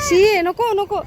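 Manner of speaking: sharp high "shee", yuck tone; high disgusted no-no; disgusted warning. Real, not acted. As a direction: wrinkle your nose at the dirt. Mother warns child off dirt.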